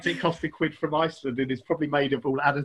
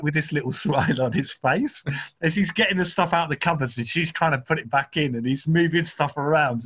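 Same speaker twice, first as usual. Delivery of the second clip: normal talking voice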